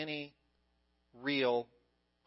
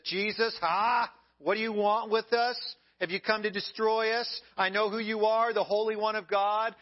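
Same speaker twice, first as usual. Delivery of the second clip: demon spouting off; 4 semitones higher, 3 dB louder than usual. Acted. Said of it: "he spouts off".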